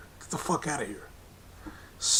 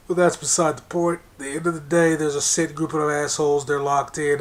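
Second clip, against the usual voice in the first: raised voice, hammering the point; louder rant; 5 dB louder than usual. Real, not acted. Ranting to listeners about a rigged system, loud and heated. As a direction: push it louder, fed up.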